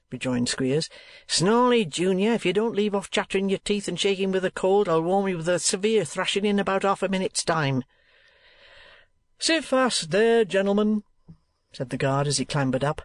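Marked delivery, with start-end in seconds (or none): 1.3-7.8 threatening. Acted. Squeers threatens a shivering boy. 9.4-11.0 calling out. Acted. Guard calling to the passengers.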